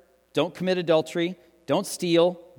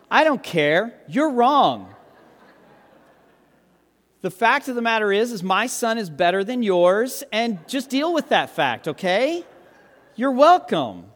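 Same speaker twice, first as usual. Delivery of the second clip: joking proud dad, a bit louder and higher with a laugh; mock bragging; 5 semitones higher, 4 dB louder than usual. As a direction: tease the congregation about the best baby. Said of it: "I kid, I kid".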